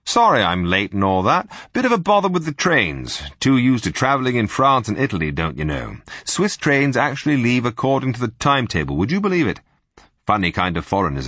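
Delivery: loud, hearty upper-class twit; silly-ass Englishman. Acted. Spy bluffing to the room as a bluff English toff, loud. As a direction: play the blithering English gent.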